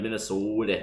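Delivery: put-on Minnesota with a stretched Minnesota accent. Canadian friends mocking the state name, in a Minnesota accent. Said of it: "can't even say Minnesota without being like".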